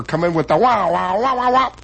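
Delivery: mock horn wah-wah; imitating trumpet stinger. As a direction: sing the band's stinger. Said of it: "After laughter".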